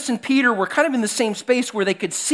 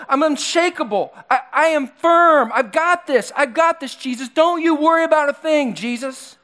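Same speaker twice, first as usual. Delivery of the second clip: higher, louder, boastful voice of Peter; cocky Peter; 5 semitones higher, 3 dB louder than usual. Retold or imitated. Preacher voicing Peter boasting to Jesus, cocky and loud. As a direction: brag like an overconfident disciple.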